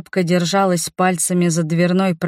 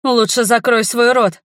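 higher, louder angry bark; furious snap; 6 semitones higher, 4 dB louder than usual. A narrator's reading. Mother snarling at her husband, loud and furious. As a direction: cut him off hard and loud. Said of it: "рыкнула мама на супруга".

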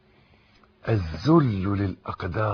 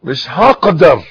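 rural Egyptian accent; 4 semitones higher, 15 dB louder than usual. Shown as a demonstration. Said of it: "بالفلاحي،".

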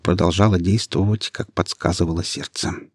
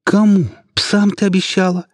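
much higher, louder despairing cry; desperate wail; 12 semitones higher, 3 dB louder than usual. A narrator's reading. Ilya wails at Yasmina in despair, much higher and louder. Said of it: "в отчаянии заголосил Илья".

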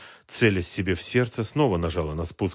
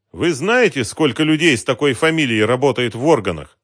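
high, loud needling question; touch of sarcasm; 7 semitones higher, 9 dB louder than usual. A narrator's reading. Operator answering an impossible request, high sarcastic question. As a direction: needle him with mild sarcasm. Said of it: "не без ехидства спросил оператор".

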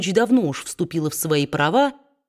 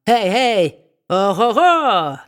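slow, louder whooping call; hollering; 3 semitones higher, 4 dB louder, slower than usual. A narrator's reading. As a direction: whoop it out to wake the house. Dwarf hollers to wake household. (карлик громко и протяжно гикает)

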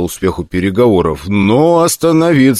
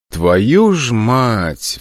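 sigh; 3 semitones higher, much slower than usual. Acted. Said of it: "вздохнул я".

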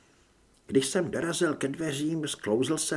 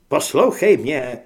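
loud, urgent begging; pleading; 10 dB louder than usual. A narrator's reading. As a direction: beg to be heard out. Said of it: "škemral Grant". (naléhavé škemrání)

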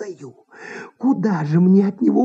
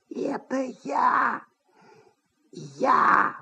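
softer trembling voice from under the sofa; trembling whisper; 2 semitones higher, 7 dB quieter, much slower than usual. A narrator's reading. Hidden manager answers the actress, trembling and hushed. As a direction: plead in a shaky hush. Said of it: "дрожащий шёпот".

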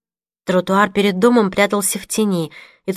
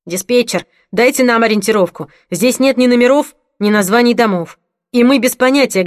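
exasperated into radio; 3 semitones higher, 5 dB louder than usual. Acted. Frustrated paramedic radios dispatcher.

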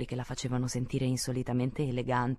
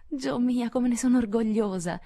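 high, bright-voiced joy; proud exclamation; 8 semitones higher, 3 dB louder than usual. A narrator's reading. Beth hugs her sister, exclaiming joyfully. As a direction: burst out with pride. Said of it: "esclamò Beth".

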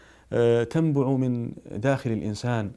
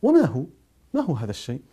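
husband caught off guard, asking eagerly; startled question that calms down; astonished; 2 semitones higher, 4 dB louder than usual. A narrator's reading. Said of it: "فقال الزوج في دهشة".

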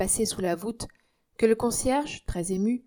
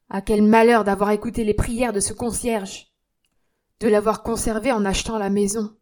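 louder, urgent exclamation; dismayed outcry; 6 dB louder than usual. Acted. Bobino to Germaine, urgent dismayed outcry. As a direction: cry out in distress. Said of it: "s'écria".

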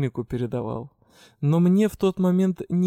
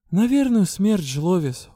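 gloomy reply; 5 semitones higher, 4 dB louder, slower than usual. A narrator's reading. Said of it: "угрюмо ответила я".

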